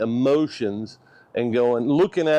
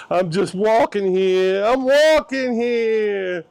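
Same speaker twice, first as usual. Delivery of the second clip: high, loud, stretched-out movie-quote yell; mock indignant shout; 9 semitones higher, 5 dB louder, slower than usual. Vlogger quoting a film line about walking, mock indignant shout. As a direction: yell it high, dragging out the vowels.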